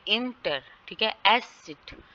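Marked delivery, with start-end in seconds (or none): 0.1-0.6 इंटर leaning on इन, unstressed टर; stress on first syllable. Shown as a demonstration. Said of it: "इन के ऊपर है". 1.3-2.0 एसिड with weight on the opening ऐस; stress on first syllable. Shown as a demonstration. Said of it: "ए double एस पे stress है".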